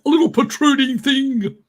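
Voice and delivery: high, loud robotic Dalek squawk; sudden metallic Dalek shriek. Acted. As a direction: screech it like a Dalek. Building up to Dalek voice.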